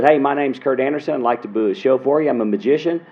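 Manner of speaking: put-on eager booking pitch in a Southern accent; quick Southern-accented sales call; old Alabama accent. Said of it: "This was my natural voice as I grew up".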